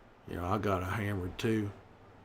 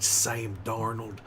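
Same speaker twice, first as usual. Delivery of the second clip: rousing call; 5 dB louder, much slower than usual. Acted. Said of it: "I said get psyched".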